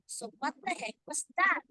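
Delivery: emphatic exclamation. Shown as a demonstration. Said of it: "there is this emphasis".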